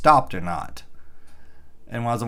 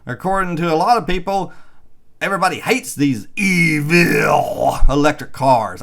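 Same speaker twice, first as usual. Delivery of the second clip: sarcastic mockery; 6 semitones higher, 5 dB louder than usual. Mocking EV-hating headlines.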